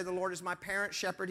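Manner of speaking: "parent's" picked out as the contrasting word; brisk line leaning on "parent's"; stress on "parent's". Shown as a demonstration. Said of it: "He doesn't say".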